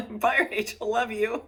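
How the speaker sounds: breaking up while imitating a quick send-off; hasty goodbye. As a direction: call a high bye through laughter. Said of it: "Val and I are like".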